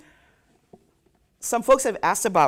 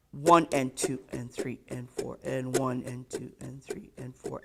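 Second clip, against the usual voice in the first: one and two and, punch each ONE; accent on one; 2 semitones lower, 4 dB quieter than usual. Shown as a demonstration. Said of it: "Accent on one".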